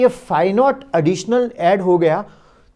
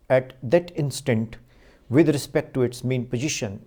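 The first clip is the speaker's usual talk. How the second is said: slow dictation; 3 semitones lower, much slower than usual. Shown as a demonstration. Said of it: "let me repeat it once again".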